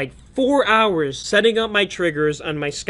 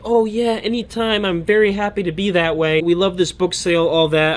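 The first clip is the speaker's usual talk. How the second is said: mock eager, overly agreeable reply; butter her up, a touch too sweet; sucking up; 2 semitones higher than usual. Thanking the book sale lady, mildly ingratiating. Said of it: "I just suck up a little bit".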